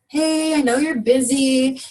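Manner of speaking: slow, drawn-out, apologetic opener; demonstrating an unconfident, humdrum phone tone; humdrum sales call. Shown as a demonstration. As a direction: mimic a half-hearted caller, stretching the words. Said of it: "as opposed to that last one where I was like".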